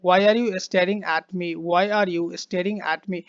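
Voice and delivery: very slow, each word spaced out; slow dictation. Shown as a demonstration. Teacher reading the sentence aloud for students, slowly. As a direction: read it out slowly for learners. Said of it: "Stare मतलब होता है घूरना".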